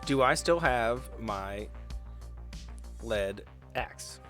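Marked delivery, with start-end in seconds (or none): none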